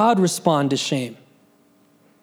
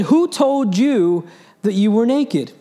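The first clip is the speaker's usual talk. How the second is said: booming voice from sky; 4 semitones higher, 3 dB louder, slower than usual. Acted. God questions Adam, voiced.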